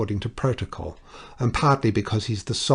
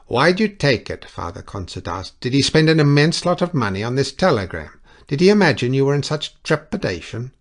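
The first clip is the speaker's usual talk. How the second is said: astonished; 7 semitones higher, 9 dB louder than usual. Acted. Priest questions in astonishment.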